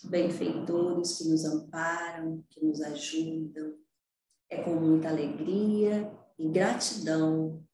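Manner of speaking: soft, hushed prayer voice. Acted. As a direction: quietly pray with reverence. Leads the class prayer.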